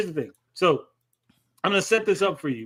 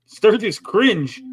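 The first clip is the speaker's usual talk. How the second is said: slow drawn-out; 3 semitones higher, 5 dB louder, much slower than usual. Real, not acted. Drawn-out verdict.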